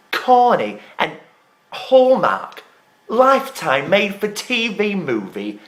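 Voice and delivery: drawn-out, contemptuous list; disdainful, punched-out adjectives; scornful mockery. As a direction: sneer each insult as a separate jab. Scornful list insulting Kim's show.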